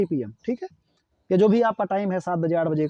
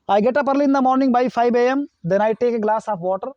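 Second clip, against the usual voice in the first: slow dictation; 3 semitones higher, much slower than usual. Shown as a demonstration. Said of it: "slow model sentence dictated".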